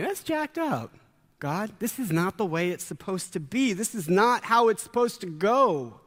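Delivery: high, pained cry at God; frustrated complaint. Retold or imitated. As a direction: protest to God like a wronged friend. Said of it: "It's me in Long Beach going".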